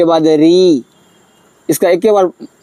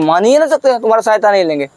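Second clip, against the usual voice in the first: stubborn elder brother; 3 semitones higher, faster than usual. Acted. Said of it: "बोला".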